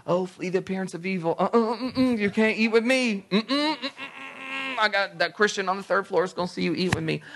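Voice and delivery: high-pitched humming no-no; mock scandalized refusal. Mock prim Christian refusing lunch.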